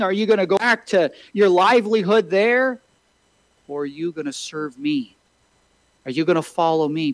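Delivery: lightly voiced Jesus challenging Peter; voicing Jesus pleading. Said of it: "Jesus says to Peter".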